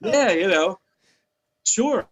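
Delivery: high, chuckling sure; laughing reply. Retold or imitated. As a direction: laugh it off like it's no big deal. Laughing retold reply to owners.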